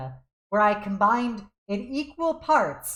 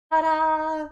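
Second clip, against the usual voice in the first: ta-da; 8 semitones higher than usual. Real, not acted. Presenting the game screen.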